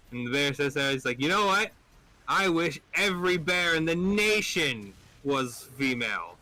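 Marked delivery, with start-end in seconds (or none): 1.2-6.4 raised pitch with stretched emphasis; acted eager wish. Bear makes his bigger second wish, eagerly escalating. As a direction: build to a greedy, high-pitched declaration.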